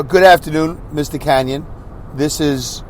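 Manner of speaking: a lightly voiced courteous professional caller; polite nurse. Imagining how the nurse should have called him. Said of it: "she doesn't say".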